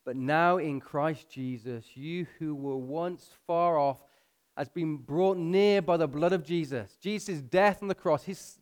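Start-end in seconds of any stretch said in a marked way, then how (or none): 0.0-7.0 slow, weighty scripture reading. Real, not acted. Preacher reading of those brought near, slowly and deliberately. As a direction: draw the phrases out so they sink in. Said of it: "I'm gonna read it slow".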